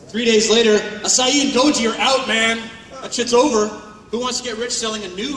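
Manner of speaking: loud, mocking sales hype. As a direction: pitch it like a pushy MLM recruiter announcing the next trend. Mocking MLM product hype.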